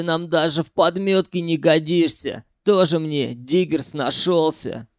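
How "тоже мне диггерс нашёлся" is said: plain reading voice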